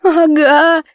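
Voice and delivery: high, wailing little "ага"; sobbing yes. Acted. Kamila sobbing yes to Yulia's question. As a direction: sob it out, a touch of tears. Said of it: "рыдала Камила".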